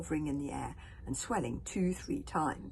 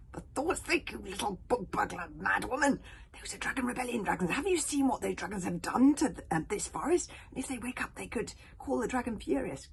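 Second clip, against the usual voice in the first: higher, urgent telling-off; boy snapping at a thief; tense scolding boy; 5 semitones higher than usual. Acted. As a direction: scold in an anxious rush. Angry boy scolding from hiding.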